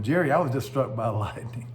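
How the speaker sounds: laughing. Retold or imitated. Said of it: "he gets up laughing".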